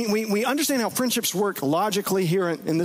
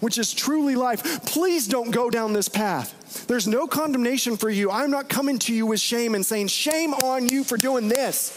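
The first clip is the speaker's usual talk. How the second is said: higher, earnest, imploring voice of God; the Lord pleading with his friend not to go down this path, higher and imploring; 4 semitones higher than usual. Retold or imitated. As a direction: plead lovingly with a wandering friend, rising in earnest.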